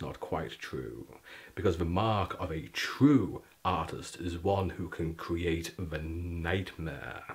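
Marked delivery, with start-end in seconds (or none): 5.1-7.2 ominous low voice. Acted. Ominous award intro.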